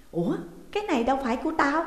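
high, quick puzzled remark; startled disbelief; bewildered. A narrator's reading. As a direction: blurt it out in confusion. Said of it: "Mụ ta ngơ ngác".

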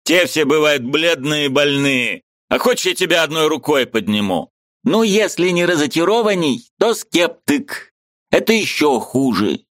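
high, eager voice of a Ukrainian friend; lively high-pitched friend arguing; Mikhalevich's voice. A narrator's reading. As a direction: play the excitable friend up high.

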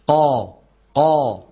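"قا" with no air escaping after the qaf; a firm, pure qaf on each "قا"; voiced clean qaf. Shown as a demonstration. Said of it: "القاف الفصيحة".

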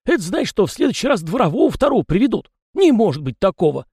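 high chatty peasant voice, pitched well up; folksy yard spirit. A narrator's reading. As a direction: play the fussy little yard spirit, talking nonstop. Tikhon speaks.

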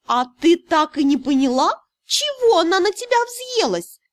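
breezy, jumping high at the end; carefree. A narrator's reading. Cat teasing the heroine, carefree and breezy. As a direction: toss it off without a care. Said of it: "беззаботно поинтересовался кот".

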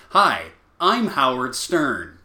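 mock host intro; announcing intro. Shown as a demonstration. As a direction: spell out who you are first. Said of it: "Now we'll go into my impression".

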